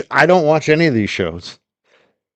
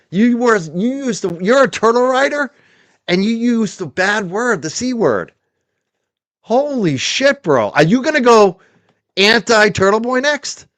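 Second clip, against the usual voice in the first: mocking Will; 5 semitones higher than usual.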